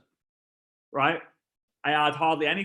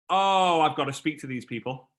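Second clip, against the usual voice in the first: mock panic; 7 semitones higher, 6 dB louder than usual. Retold inner panic.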